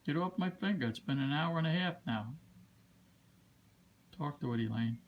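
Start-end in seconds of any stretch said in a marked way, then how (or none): 0.0-0.9 higher, coaxing sing-song to a bird; coaxing a wild bird. Real, not acted. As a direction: gently coax the little bird along.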